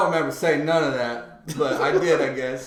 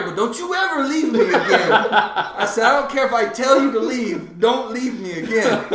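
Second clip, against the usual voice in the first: retold demand; 6 semitones higher, 4 dB louder than usual. Retold quarrel, demanding she never leave.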